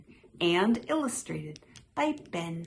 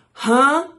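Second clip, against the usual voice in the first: high, loud exclamation; crying out; 9 semitones higher, 15 dB louder than usual. A narrator's reading. Frog in a lively quarrel, a high loud cry. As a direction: blurt it out sharply high. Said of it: "Frog cried".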